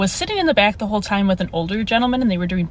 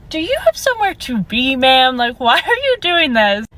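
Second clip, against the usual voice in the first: sarcastic retort; 3 semitones higher, 3 dB louder than usual. Retold or imitated. Retorts to rushing nail tech.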